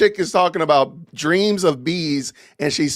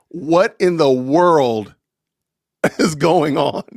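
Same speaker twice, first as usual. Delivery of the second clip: laughing disbelief; slower than usual. Real, not acted. Host baffled by Candace clip.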